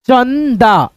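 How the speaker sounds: चंदा drawn out as चन, दा; careful teaching version of चंदा; syllable-by-syllable reading. Shown as a demonstration. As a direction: linger on the न in चंदा. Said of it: "ऐसे करके".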